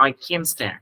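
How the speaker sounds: "can't" with full vowel and no audible t; silent t, strong can't. Shown as a demonstration. Teacher models American "can't", strong vowel, t unheard. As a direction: lean on "can't", swallowing its t. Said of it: "mình không nghe được chữ thờ đâu".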